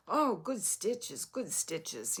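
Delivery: slow, admiring Russian-accented imitation. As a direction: imitate a sweet Russian lady praising handiwork. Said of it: "sweet and had a very thick accent".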